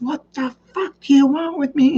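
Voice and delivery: high, strained angry outburst; hammed-up high-pitched protest; mock exasperated husband. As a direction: imitate a man who has had enough. Husband snaps in acted quarrel.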